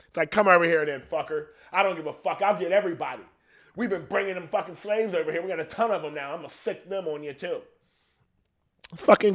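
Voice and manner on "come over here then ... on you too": higher-pitched mock defiance; defiant colonist. Colonist daring the homeland to attack, mock defiant. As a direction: goad them to come and fight.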